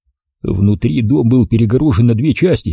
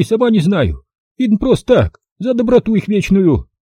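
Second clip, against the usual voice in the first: put-on higher, brisk old-woman voice; old village granny; 11 semitones higher than usual. Old granny greeting the city visitor, high old-woman voice. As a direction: voice the feisty village grandmother. Granny tells about Manya.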